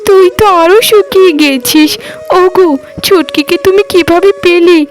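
overwhelmed with joy at seeing her little sister; stammering joyful surprise. Acted. Sister arrives unexpectedly.

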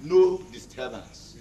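slow, drawn-out order; measured, deliberate command; slow warning. Acted. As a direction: stretch each word as a warning. Repeats the order for emphasis.

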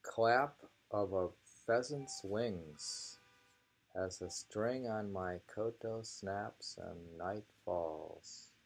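slow, measured haiku reading; unhurried recital of a short poem. Acted. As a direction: savour each image as you read the verse. Reads haiku aloud.

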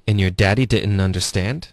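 "and your daddy didn't understand" as en-yer DAddy di'n-nunderSTAND; linked drill model. Shown as a demonstration. Teacher modelling the whole line, linked "and your daddy didn't understand". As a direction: link "didn't understand", rising at the end. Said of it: "我们来分段练一下".

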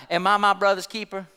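low, offhand retort with a touch of sarcasm; understated sarcasm. Acted. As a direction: toss it back with mild sarcasm. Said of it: "somewhat with a sarcastic attitude".

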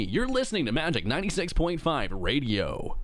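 lightly voiced smooth radio announcer; a hint of radio host swagger. Shown as a demonstration. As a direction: show off a DJ voice on the mic. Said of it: "sound like me".

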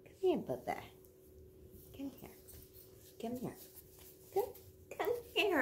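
high, sing-song call to a dog. Real, not acted. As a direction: coax the dog over in a high voice. Calling the dog over.

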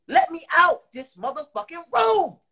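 raging shout. Retold or imitated. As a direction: yell it like you're locked in and furious. Reliving rage locked in cell.

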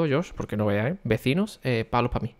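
hushed, kept-down voice; talking quietly. Real, not acted. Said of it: "estoy hablando bajito". (hablando bajito por los vecinos)

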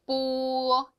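뽀 said slowly with a tense, unaspirated bb; Chinese b sound. Shown as a demonstration. Teacher shows students the Chinese b, a slow tense 뽀. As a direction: draw out 뽀 with a tight, tense start. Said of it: "약간 된 소리가 나죠".

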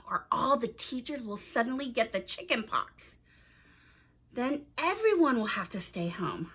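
put-on clear, expressive storytelling to young listeners; story narration. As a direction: read it aloud like a picture book for children. Reads a children's story aloud.

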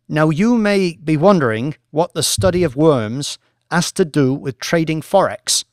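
a lightly voiced academic lecturer, measured and assured; professor presenting. Professor lecturing the traders, calm and assured. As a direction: present the research to the bored bankers.

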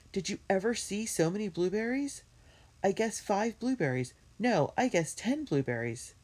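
high-pitched eager wonder; excited cry. A narrator's reading. Benny tells Jessie about all the blueberries, excitedly. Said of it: "cried Benny".

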